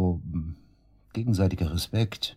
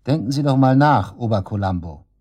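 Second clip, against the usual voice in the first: angry shout; 2 semitones higher, 6 dB louder than usual. Acted. Suspect shouts at the detective.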